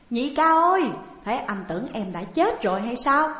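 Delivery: high, loud cry of greeting; loud call. A narrator's reading. Tưởng Bình bursting in on his sworn brother, calling loudly. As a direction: call out to him across the room, loud. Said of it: "kêu lớn rằng".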